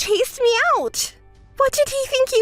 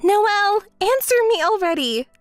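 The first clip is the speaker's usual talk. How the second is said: higher, impatient call; irritated demand; 5 semitones higher than usual. Acted. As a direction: demand an answer crossly. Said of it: "It's making me irritated".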